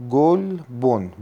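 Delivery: گل و بن را آرام و جدا از هم بگو; دو جزء واژه را شمرده و با مکث ادا کن; جداجدا گفتن اجزا. Shown as a demonstration. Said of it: "مرکبه". (تفکیک آهسته و شمردهٔ «گل، بن»)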